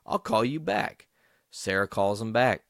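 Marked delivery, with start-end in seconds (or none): 0.0-1.1 loud, slow, outraged; retold angry outburst. Sarah outraged at the aunt hanging up on her. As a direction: drag it out loud and indignant. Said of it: "So Sarah's like".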